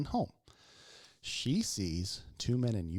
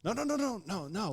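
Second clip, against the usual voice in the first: nice reassurance; 9 semitones higher than usual. Retold or imitated. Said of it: "I started off nice".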